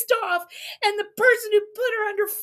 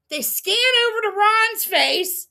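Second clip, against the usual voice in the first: ordinary talk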